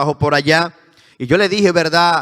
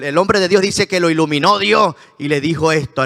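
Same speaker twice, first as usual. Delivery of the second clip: usual speaking voice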